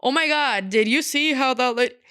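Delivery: stage whisper that is practically yelling; loud whisper. Retold or imitated. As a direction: imitate someone failing badly at whispering. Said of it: "Don't loud whisper either".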